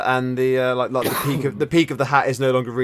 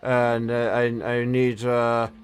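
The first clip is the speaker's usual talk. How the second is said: put-on old man voice; 3 semitones higher than usual. GM continues old wizard NPC.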